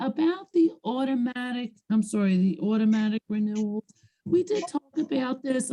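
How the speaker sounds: hoarse, failing voice; losing voice. Real, not acted. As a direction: rasp through a voice that's giving out. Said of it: "I'm losing my voice".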